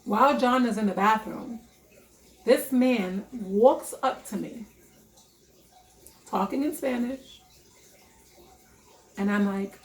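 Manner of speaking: ordinary delivery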